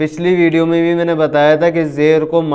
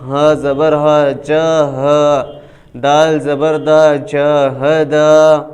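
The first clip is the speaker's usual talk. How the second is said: spelling drill. Shown as a demonstration. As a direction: sound out each letter for the learner. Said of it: "کس طرح؟".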